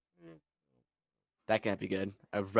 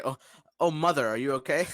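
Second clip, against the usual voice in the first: alarmed concern; 5 semitones higher, 3 dB louder, faster than usual. Acted. Redo, rushes to burned Thri-kreen.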